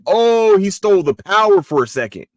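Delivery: loud, high "oh" of discovery; sudden realisation. Retold or imitated. Retold moment of realisation.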